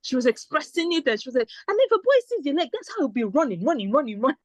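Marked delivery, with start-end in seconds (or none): 1.7-4.4 put-on Nigerian accent. Shoe seller quoted.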